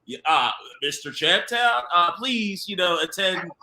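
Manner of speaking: lightly voiced careful producer. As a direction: put on a hint of a producer voice, playing it safe. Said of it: "put my little producer voice on".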